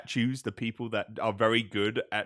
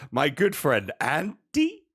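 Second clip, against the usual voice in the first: mock doubtful; 3 semitones higher, 3 dB louder, slower than usual. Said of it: "It's like".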